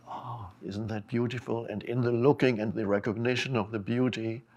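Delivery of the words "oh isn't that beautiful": soft awed "oh", gently admiring; hushed admiration. Acted. Speaker voicing someone who looks at beauty, hushed admiration. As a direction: marvel quietly at something beautiful.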